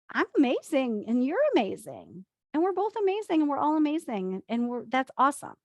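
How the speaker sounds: bright, high, happy rush of praise; joyful confidence. Shown as a demonstration. Coach demonstrating healthy confidence, bubbly and high. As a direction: gush about how amazing everyone is. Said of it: "Feeling confident is like".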